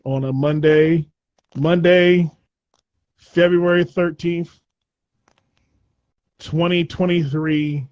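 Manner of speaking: slow, measured newsreel announcer; old newsreel. Acted. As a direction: read the date like old newsreel. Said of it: "Why do you sound like an old newsreel?".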